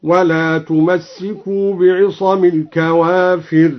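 "تمسكوا" بتشديد السين; قراءة بالتشديد؛ "تمسكوا" with a doubled s, tamassakū, slow. Shown as a demonstration. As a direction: stress the shadda in "تمسكوا". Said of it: "بفتح الميم وتشديد السين".

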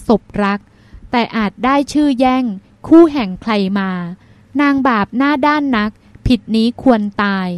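measured verse reading, phrase by phrase; poem recitation. A narrator's reading. Younger sister writing a love verse on her sister's lap, measured recitation. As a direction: recite it with a pause after each short line.

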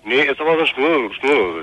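thin, tinny voice down a phone line. Real, not acted. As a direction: caller heard through a corded phone. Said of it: "so eine blecherne Stimme".

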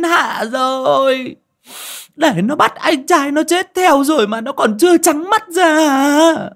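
high, loud bitter wailing; bitter shriek. A narrator's reading. Aunt wailing at the family's stupidity, high and loud. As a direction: cry out to heaven in fury. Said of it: "rít lên cay đắng".

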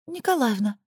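высоко, тоненько пискнуть; робко пискнуть отчество; писк. A narrator's reading. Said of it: "пискнула Чарушина". (тоненько пискнула)

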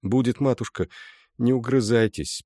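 calm her down kindly; reassuring son comforting his mother; soothing. A narrator's reading. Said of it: "примирительно проговорил Андрюс".

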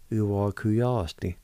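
"Uwakuyasti" said slowly and clearly; slow review word. Shown as a demonstration. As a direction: repeat "Uwakuyasti" slowly as a model. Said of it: "Now pronounce the words one more time".

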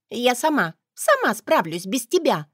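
put-on high huffy young woman; petulant girl. A narrator's reading. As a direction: push the help away, pouting. Spoiled girl snaps back.

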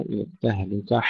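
التهلكة with its final ه forced into a harsher breath; wrong ending. Shown as a demonstration. Teacher showing another error, التهلكة with harsh final breath. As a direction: overdo the breath closing التهلكة. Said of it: "لا نقول".

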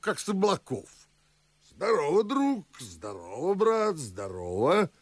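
high-pitched, animated astonishment; astonished greeting. Acted. Father to a friend back unannounced, high and astonished. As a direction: exclaim at the unexpected visitor, pitch up.

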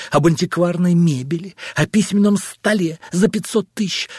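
rising anger. Acted. Husband confronting wife about luxuries, angrily. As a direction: build the accusation.

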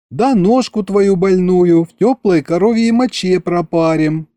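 a hint of a high folksy nurse; lightly voiced kikimora nurse.

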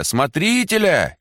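slow, drawn-out high shout of Смотрителя; drawn-out call. A narrator's reading. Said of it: "кричали женщины". (протяжный крик)

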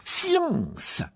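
cri aigu et sec; silence coupant. A narrator's reading. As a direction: couper net la parole. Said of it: "coupa Rogue". (ordre aigu et tranchant)

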